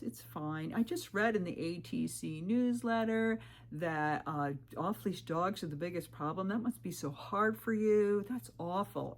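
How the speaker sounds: lightly imitated fake sympathy, drawn out; mock sympathy. Dog owner to injured hiker, mildly feigned sympathy. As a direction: stretch the words into hollow sympathy. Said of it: "he's pretending to sympathize".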